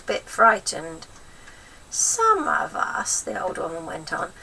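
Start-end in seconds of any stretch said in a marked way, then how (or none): 1.9-3.2 high, slow breathy whisper; throaty whisper. A narrator's reading. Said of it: "whispering in a throaty sort of voice".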